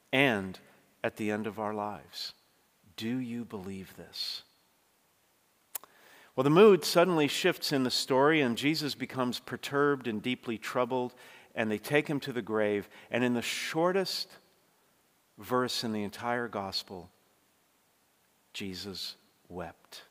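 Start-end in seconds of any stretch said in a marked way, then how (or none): 3.0-4.4 softly turned on the congregation; question to the listener. Real, not acted. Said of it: "the Lord puts this question to every single one of us". 18.5-20.0 solemn. Real, not acted. Solemn pause on shortest verse.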